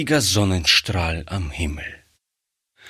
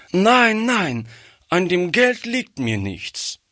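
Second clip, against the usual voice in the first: put-on crying out child; 9 semitones higher than usual. A narrator's reading. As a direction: cry out no like a tearful child. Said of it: "rief Gretchen".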